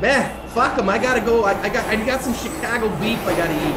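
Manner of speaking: a jokey put-on Chicago accent; bad Chicago accent. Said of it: "It's probably the worst Chicago accent".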